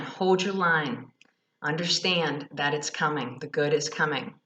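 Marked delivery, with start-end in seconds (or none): 0.0-1.1 slow firm repeat. Real, not acted.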